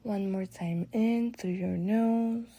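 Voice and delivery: calm guided meditation with long pauses; relaxing meditation voice. Real, not acted. Guide leading listeners through breathwork and body relaxation, relaxing. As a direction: ease them unhurriedly through each breath, letting phrases settle. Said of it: "My voice is gonna shift to a little more relaxing".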